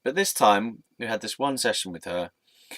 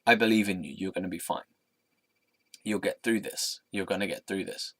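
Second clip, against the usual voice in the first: gentle certain reassurance. Retold or imitated. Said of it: "In a way like".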